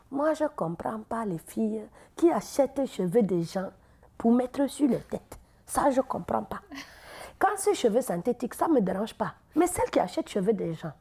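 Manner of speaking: put-on slow-starting Cameroonian woman's accent; puzzled complaint in a drawling Cameroonian accent. Cameroonian carpool passenger tells her opinion, Cameroonian accent. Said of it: "une Camerounaise".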